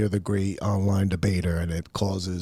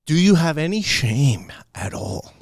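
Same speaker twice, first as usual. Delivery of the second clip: raised, higher mock scold; incredulous mock reproach; 6 semitones higher, 4 dB louder than usual. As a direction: call them out, half joking. Scolding people talking to cameras.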